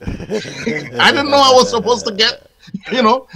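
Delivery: chuckling through the words; laughing. Real, not acted. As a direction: laugh while remembering.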